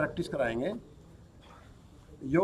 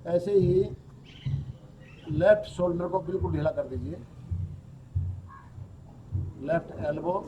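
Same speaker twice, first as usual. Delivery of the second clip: yoga nidra instructor's voice, softer than explaining; guided relaxation; 7 dB quieter than usual. Acted. Teacher leads students through yoga nidra, guided relaxation. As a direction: guide the body into rest, with long pauses.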